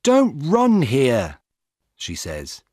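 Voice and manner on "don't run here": slow, loud warning shout; young woman yelling at the jogger to stop running. Acted. Young woman warns the jogger, slow loud shout. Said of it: "a young woman shouts at him".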